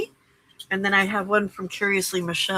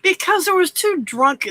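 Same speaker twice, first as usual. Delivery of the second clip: hammed-up Southern retort, pitched way up; exaggerated Southern accent; 11 semitones higher, 6 dB louder than usual. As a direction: imitate your own picked-up Southern twang. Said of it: "I was talking Southern all over the place".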